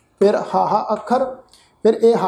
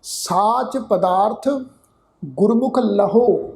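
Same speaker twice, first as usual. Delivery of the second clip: slow, measured Gurbani recitation; drawn-out chanted recitation; scripture recitation; much slower than usual. Shown as a demonstration. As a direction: recite the line slowly and devoutly. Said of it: "ਜਿਵੇਂ ਗੁਰਬਾਣੀ ਦੇ ਵਿੱਚ ਅਸੀਂ ਪਾਠ ਕਰਦੇ ਹਾਂ".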